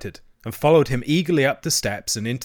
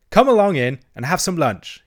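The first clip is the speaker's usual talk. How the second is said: high, bright-paced invitation, louder; diplomatic; 6 semitones higher, 7 dB louder than usual. A narrator's reading. Toad inviting wavering friends to lunch, diplomatic. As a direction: invite them in smoothly. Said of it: "he said diplomatically".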